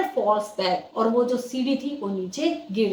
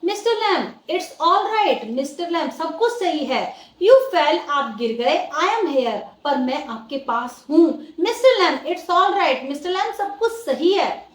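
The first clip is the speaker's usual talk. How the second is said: high, pleading reassurance, close to panic; anxious pleading; 4 semitones higher, 3 dB louder, slower than usual. Acted. Derry begs the fallen Mr Lamb to wake, anxious high plea. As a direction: coax him to wake, frightened.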